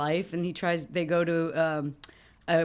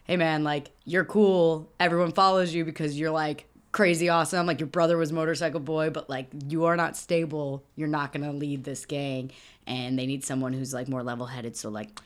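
very calm; 2 semitones lower than usual. Retold or imitated. Nick Cage's character telling the gang leader he is taking over, very calm. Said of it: "very calmly".

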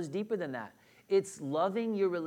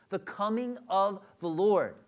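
slow and louder on the coming of the Lord; emphasis on the coming of the Lord; 5 dB louder than usual. Shown as a demonstration. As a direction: press each word of the coming of the Lord. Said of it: "There's the emphasis".

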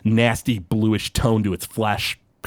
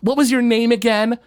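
much higher, sneering question; dismissive villain; 12 semitones higher than usual. Acted. Murdoch looking down at Blorgzak, high sneering dismissal. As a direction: brush him off like he's nothing. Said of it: "looks down and he goes".

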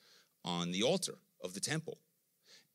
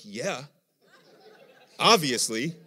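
louder dry reply with a laugh; laughing God; 4 semitones higher, 9 dB louder, slower than usual. Retold or imitated. Preacher voicing God answering Paul, laughing reply. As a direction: shrug it off, laughing. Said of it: "God's like".

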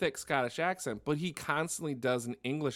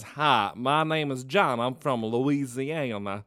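put-on Kevin Spacey's Southern accent; 3 dB louder than usual. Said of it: "But then it starts doing his".

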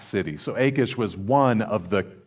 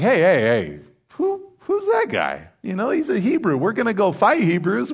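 high, excited soldier voice, much higher; hammed-up panicky Philistine commander; mock alarmed commanders; 9 semitones higher than usual. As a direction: squeak it out in alarm, pitched way up. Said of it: "commanders are like".

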